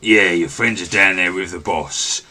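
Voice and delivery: lightly voiced goblin henchman; a hint of a bossy goblin giving orders; goblin guard.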